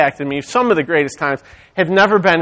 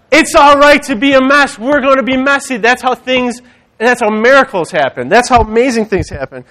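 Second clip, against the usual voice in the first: raised, higher preacher's voice; emphatic preaching; 7 semitones higher, 4 dB louder than usual. Acted. Preacher telling congregation it's all right to be messy, emphatic preaching. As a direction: drive the encouragement home to the congregation.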